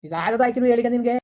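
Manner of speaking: heated comeback; irritated retort. Acted. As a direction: throw the words back at them crossly. Throws her words back in quarrel.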